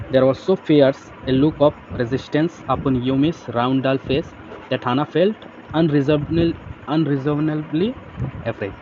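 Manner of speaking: slow, careful reading of the text; slow reading aloud. Shown as a demonstration. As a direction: read it out word by word for the class. Reads English text slowly. (धीमे से पढ़ना)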